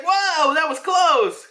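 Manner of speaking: high, startled mock exclamation; startled relief. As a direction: yelp it like a near miss. Voicing character dodging spikes.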